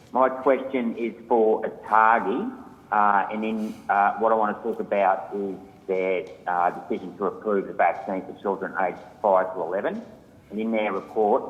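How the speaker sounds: distant, muffled phone line; speaking too far from the phone; phone held away. Real, not acted. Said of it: "I'm having trouble hearing you".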